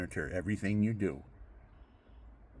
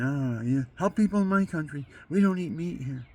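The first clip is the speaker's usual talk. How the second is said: imitated foreign reply; 6 semitones higher, 5 dB louder than usual. Voices the other man's reply.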